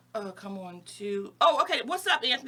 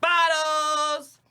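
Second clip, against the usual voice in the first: loud club hype call; hyped shout; 6 semitones higher, 7 dB louder than usual. Pretend. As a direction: shout it like bottle service.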